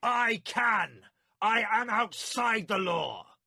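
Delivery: high, loud defiant shout; shouted back. A narrator's reading. Milimber shouting back at the warlord, defiant. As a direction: throw it in his face. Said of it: "Milimber shouted back".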